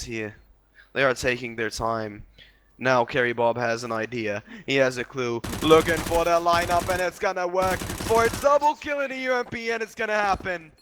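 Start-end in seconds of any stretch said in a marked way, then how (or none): 5.6-10.7 excited call. Real, not acted. Caster hyped on a double kill.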